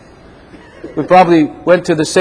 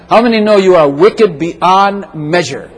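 "How many know" asked slower, leaning on "How"; slower repeated question. Shown as a demonstration. Preacher repeats his question to the congregation, slow and pointed. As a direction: ask it again, pressing hard on "How". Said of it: "I want to ask the question again".

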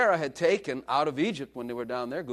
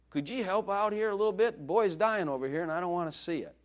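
higher-pitched pleading, lightly acted; mock desperate plea; 5 semitones higher than usual. Preacher voicing Hagar pleading for her dying boy, mock desperation. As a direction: imitate a desperate cry for help. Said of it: "I'm desperate when I'm talking to you".

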